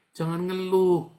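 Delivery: high, loud rebuke; firm preaching warning; stern loud. Real, not acted. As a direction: scold the complainers.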